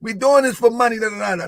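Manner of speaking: high-pitched mock of the naysayers; mocking critics. Host quoting his doubters on donations, mocking. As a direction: parrot the complainers way up high. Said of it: "people say".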